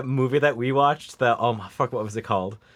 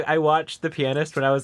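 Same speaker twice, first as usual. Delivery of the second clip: ordinary delivery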